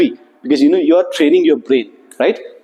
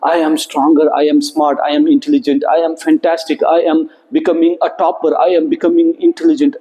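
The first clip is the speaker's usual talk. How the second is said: affirmations; 3 semitones lower than usual. Shown as a demonstration. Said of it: "send these positive messages".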